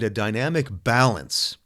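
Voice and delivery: "balance" stressed and drawn out slowly; emphasis on balance. Real, not acted. Coach sharing a quote on work and rest, stressing "balance". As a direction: lean on the word "balance", taking it slowly. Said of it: "I really emphasize the word balance here".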